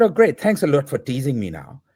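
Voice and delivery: sarcastic "oh great" to a teasing friend. Retold or imitated. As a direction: throw the thanks back with mock cheer. Retold annoyed phone reply.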